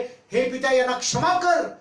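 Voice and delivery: loud, high cry to the Father; preacher acting out Christ's outcry; imitated pleading cry. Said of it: "येशू ख्रिस्ताच्या रक्ताची आरोळी आहे".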